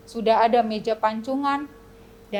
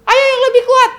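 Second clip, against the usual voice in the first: loud, much higher command; urging shout; 11 semitones higher, 12 dB louder than usual. Acted. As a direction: push them to ring harder. King urges ringing harder. (teriakan menyuruh lebih kuat)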